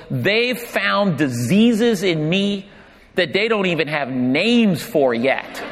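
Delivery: slow, dead-serious imitation of grandfather; retold solemn complaint. Grandson imitating his ailing grandfather, slow and dead serious. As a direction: gravely announce it, drawn out. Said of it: "he was completely serious about that".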